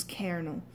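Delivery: "cairnel" with an AIR vowel, Irish-style; Irish vowel in colonel. Shown as a demonstration. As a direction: say "cairnel" as CARE-nel, Irish accent. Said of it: "a word like colonel".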